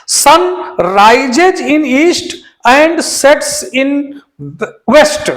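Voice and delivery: very slow, word by word; slow, deliberate reading; slow dictation. Shown as a demonstration. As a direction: dictate the faulty sentence. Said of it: "अब सन ये unique है".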